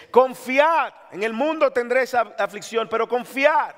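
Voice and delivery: Jesus urging courage in proclaiming voice; preaching proclamation. Acted. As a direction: proclaim it to the congregation. Quoting Jesus in John.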